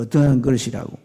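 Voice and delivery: ordinary talk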